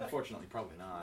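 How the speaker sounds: fast, through laughter; laughing. Real, not acted. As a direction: answer while laughing. Laughing after megaphone joke.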